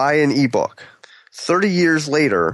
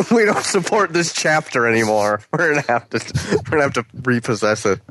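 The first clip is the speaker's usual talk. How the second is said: laughing mock clerk. Playing the bookstore voice.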